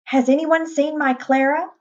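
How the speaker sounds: high-pitched worried cry; frantic. A narrator's reading. Mother searching for missing Clara, frantic cry. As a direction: plead to the crowd, pitched high. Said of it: "Missus Brahms cried frantically".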